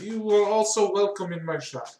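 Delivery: a hint of a gushing shopkeeper; pleased and sly, to his customers; lightly voiced fawning craftsman; doll maker Altus. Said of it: "It's like".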